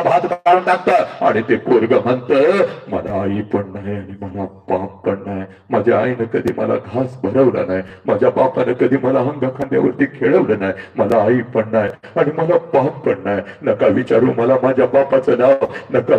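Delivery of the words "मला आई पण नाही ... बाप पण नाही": orphan's lament. Acted.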